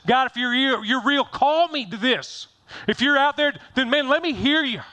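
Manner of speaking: reach up and beg to hear him; yearning plea. Retold or imitated. Pastor voicing the heart calling out to God, rising plea.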